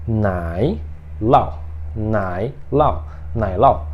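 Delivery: nai lao said slowly and clearly as a model for learners; teacher models nai lao, Mandarin cheese word; Mandarin demo. Shown as a demonstration. Teacher models Mandarin nai lao for students. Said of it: "Então, ó, de novo".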